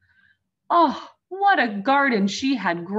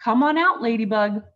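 with a grin; 3 semitones higher, 5 dB louder, faster than usual. Acted. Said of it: "said her father with a grin".

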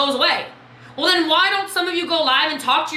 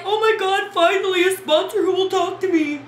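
excited fan; 6 semitones higher than usual. Retold or imitated. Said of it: "People were like".

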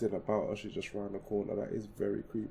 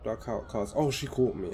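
panicked shout; 7 dB louder than usual. Real, not acted. Fleeing, caught by the monster.

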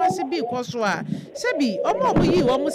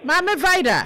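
calling out; 4 semitones higher than usual. Real, not acted. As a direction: call her name again and again to get her attention. Host calls to interrupt caller.

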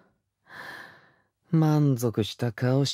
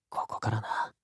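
soft hushed promise; whisper; 8 dB quieter than usual. Acted. Lover starting to tease the listener, soft whisper. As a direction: breathe it close to the ear.

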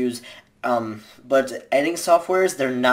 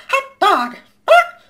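slow, very high and louder cartoon mouse cry; Mickey Mouse; 9 dB louder, much slower than usual. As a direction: stretch it out high and gleeful. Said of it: "I can do the voice pretty well".

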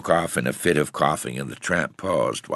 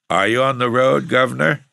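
put-on higher boy's voice, louder, a touch husky; 10 semitones higher, 7 dB louder than usual. A narrator's reading. Boy calls to passing tramp, high and husky. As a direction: call out huskily as a young lad. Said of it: "asked the boy huskily".

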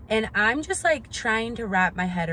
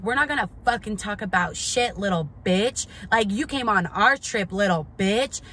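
mock aggressive mom. Her mom getting in her face on the trip, mild mock anger. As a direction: imitate her mom snapping insults, half-hearted. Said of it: "she starts calling me a little bitch".

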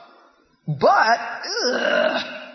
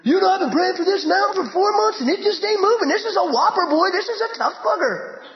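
a hint of a grumbling believer; mock complainer; 5 semitones higher than usual. Believer complaining about an unmoved mountain, mild mock grumble. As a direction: lightly play the weary pray-er. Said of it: "That's how we talk".

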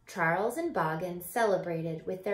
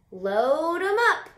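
much higher, louder eager call; brisk helper voice; 8 semitones higher, 8 dB louder than usual. Acted. Helping Fox carry berries, eager high call. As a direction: call it out keen to help.

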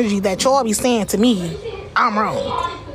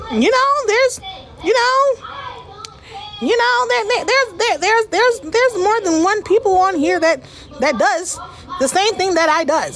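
high-pitched rant; 9 semitones higher than usual. Real, not acted. Streamer calls out rival Cash App queens in a high voice. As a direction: push the voice way up in indignation.

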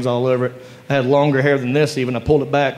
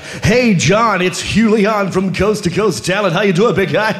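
slick agent voice; 3 semitones higher than usual. Retold or imitated. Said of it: "thinks he's Jeremy Piven".

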